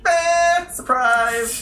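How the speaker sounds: high, loud playful surprise; spring a surprise on the viewers; mock surprise. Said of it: "We usually just kinda like".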